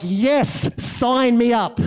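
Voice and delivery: drawn-out, delighted yes; mock eager sign-up, stretched out; eager introverts. Introverts react to a talk on silence and solitude, eager.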